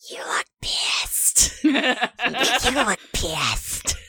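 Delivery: put-on hushed, slow child whisper; mocking whispered echo; children whispering. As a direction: whisper it like kids gossiping. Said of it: "be whispering to each other".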